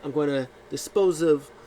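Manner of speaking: high, condescending mock diva; haughty diva. Zelina sneering at the crowd, lightly high diva. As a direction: talk down to the peasants.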